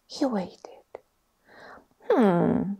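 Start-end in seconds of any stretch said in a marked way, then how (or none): 2.1-2.8 a voiced, thoughtful hum breaking the whisper; sorting hat voice. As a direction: hum like an old hat weighing him up. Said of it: "said a small voice in his ear".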